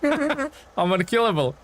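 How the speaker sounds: high, drawn-out crow after a laugh; laugh, then boast in a high, slow voice; gleeful laughing boast. Real, not acted. Streamer boasts to viewers after surviving, gleeful laughing.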